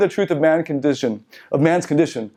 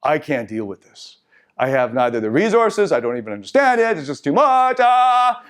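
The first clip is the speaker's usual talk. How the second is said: mock overwhelmed toddler. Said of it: "he says".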